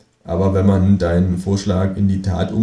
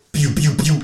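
gun noises; 7 semitones higher than usual. Acted. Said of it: "sag ich und schieße".

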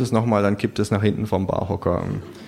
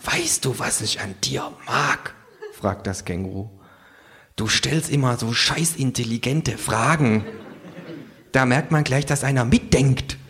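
sarcastic kangaroo; 4 semitones higher than usual. Acted. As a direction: purr the mock compliment.

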